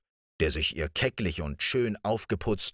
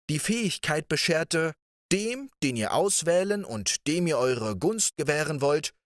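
much higher prince voice, fervent and solemn; Riquet revealing; 10 semitones higher than usual. A narrator's reading. Riquet tells his beloved about the fairy's gift, high and fervent. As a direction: reveal the secret with devotion.

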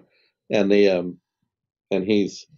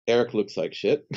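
laughing; 3 semitones higher than usual. Retold or imitated. Quoting the psychiatrist, laughing.

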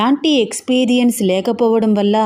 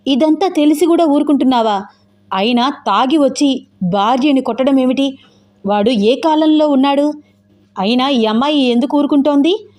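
higher-pitched, outraged questioning; indignant anger; 4 semitones higher than usual. Acted. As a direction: demand answers with rising indignation. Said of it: "అని కోపంగా అంటూ". (కోపంగా నిలదీస్తూ)

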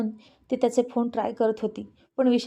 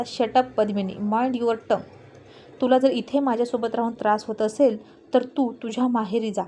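angry shout. A narrator's reading. Husband yelling at his pregnant wife, mildly angry. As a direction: scold her with restrained anger. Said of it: "तो तिच्यावर खूप जोरात ओरडला".

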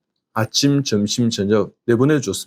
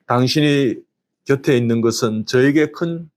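blessing greeting. Shown as a demonstration. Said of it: "예, 축복하고 인사해 볼까요?".

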